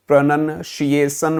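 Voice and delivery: "प्रोनंशिएशन" ending in "san" after "shee-ay"; common mispronunciation. Shown as a demonstration. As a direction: say "प्रोनंशिएशन" slowly as pra-nan-shee-ay-san. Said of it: "ninety eight percent लोगों को नहीं बोलना आता". ("प्रोनंशिएशन" को प्र-नन-शिएसन बोलें)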